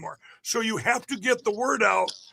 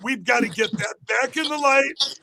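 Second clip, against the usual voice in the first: rallying shout; 2 semitones higher than usual. Real, not acted.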